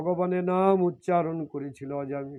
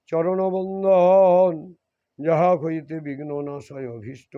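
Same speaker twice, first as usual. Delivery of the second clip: recited devotional verse. Acted. Preacher to the devotees closing the reading, intoning the prayer verses.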